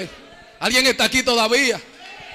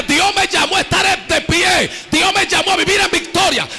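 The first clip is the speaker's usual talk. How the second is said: declaring aloud; 3 semitones higher than usual. Real, not acted. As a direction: proclaim it like a victory cry. Preacher leads congregation declaration.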